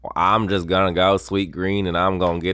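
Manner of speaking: put-on a light Southern accent, casual. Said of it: "Can you do a Southern accent?".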